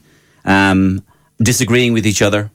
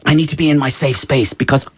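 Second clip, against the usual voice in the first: mocking whiny student; 8 semitones higher than usual.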